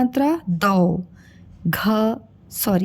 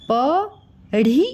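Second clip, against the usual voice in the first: slow syllable reading; 3 semitones higher, much slower than usual. Shown as a demonstration. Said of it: "ये है बोल".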